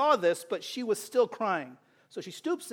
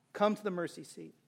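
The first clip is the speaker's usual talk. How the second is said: "Come to the mercy seat" said much softer, gentle weight on "Come"; soft invitation; 6 dB quieter than usual. Acted. Preacher gently inviting seekers to God, soft invitation.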